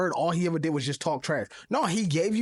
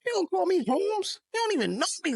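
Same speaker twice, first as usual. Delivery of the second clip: mock outrage; 11 semitones higher than usual. Mock offense at being called Holmes.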